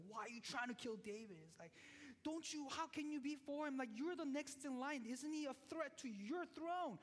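lightly voiced angry king. Saul angrily questioning Jonathan.

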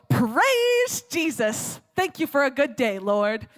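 loud, drawn-out shout of praise, easing at the end; yelled praise. Retold or imitated. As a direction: holler a morning prayer from the front step. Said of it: "her yelling on her front step".

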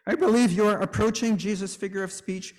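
plain. Retold or imitated. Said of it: "Luther might counter".

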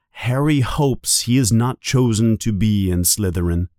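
plain reading voice

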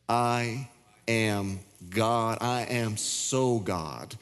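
very slow, deliberate proclamation; voice of God. Acted. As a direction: let each word land slowly, as God declaring himself. Preacher voicing God's words.

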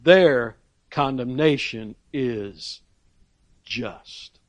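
measured pointed verdict, each word set apart; very pointed statement. Retold or imitated. Preacher quoting Paul's verdict on his slanderers, slow and pointed. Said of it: "he makes the very pointed statement".

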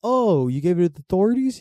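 high-pitched mock dismay; crackhead impression. Crackhead learns police have his stuff, high mock dismay. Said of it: "he's like".

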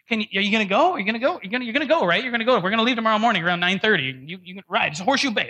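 imitating a pushy, keen pal; pestering friend. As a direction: badger them excitedly to come along. Retold friend pestering about the ride.

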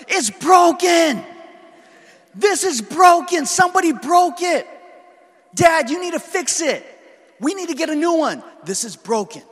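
put-on high, loud child's screaming fit; mock tantrum yell. Dad imitating his four-year-old's puzzle tantrum, high shouting. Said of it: "she starts yelling".

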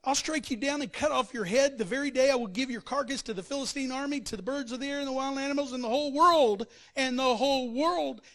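loud, fast giant's threat; Goliath roaring at David; booming threat. Acted. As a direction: hurl the threat across the valley. Preacher voicing Goliath's threat.

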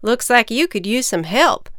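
farmer voice. Acted. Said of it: "the farmer said".

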